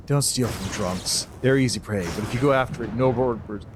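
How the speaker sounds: stern uncle. Acted. Old mentor voiced, lower.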